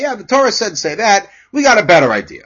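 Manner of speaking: mock dismissive. Teacher voicing the Haggadah brushing off the Torah, mock casual. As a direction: toss off the Torah's answer lightly. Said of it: "as if to say".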